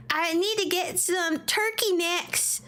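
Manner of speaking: slow mock Southern drawl; a hint of a put-on Southern accent. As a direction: drawl a grocery list like a local. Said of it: "Say it with a southern ac".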